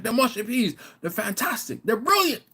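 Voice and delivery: high, rising delight; hammed-up Chris. Host praising mushy peas, high and delighted. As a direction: sell the peas like a proud host. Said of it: "He's like".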